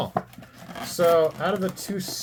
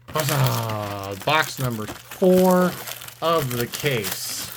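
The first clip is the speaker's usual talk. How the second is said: mock announcer; much slower than usual. Mock-grand announcement of next box.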